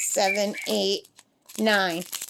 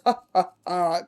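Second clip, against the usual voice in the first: imitated evil laugh; 4 semitones lower than usual. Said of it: "her laugh when she goes".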